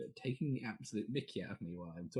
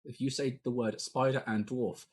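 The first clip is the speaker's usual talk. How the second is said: mock threat; 2 semitones higher, 5 dB louder than usual. Host warning players not to say the joke, loud mock threat. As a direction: warn them with a playful threat.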